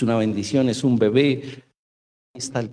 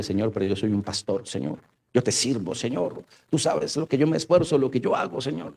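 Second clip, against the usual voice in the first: tono suplicante que sube en cada Señor; súplica quejosa. Retold or imitated. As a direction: quejarse a Dios como niño mimado. Imita una queja a Dios. (súplica quejumbrosa a Dios, medio en burla)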